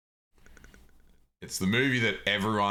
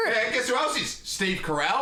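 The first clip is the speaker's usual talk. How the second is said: excited, higher and louder blurting; 10 semitones higher than usual. Real, not acted. Drowning out a friend with excited movie trivia, loud. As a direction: talk right over him, eager and loud. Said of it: "you were so fucking loud".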